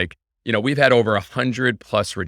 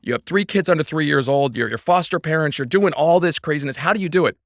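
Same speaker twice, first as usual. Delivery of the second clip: lightly voiced, higher eager asker; a hint of an amazed fan, pitched up; mock fan marveling, higher; imitating fans; 7 semitones higher than usual. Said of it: "if everyone's".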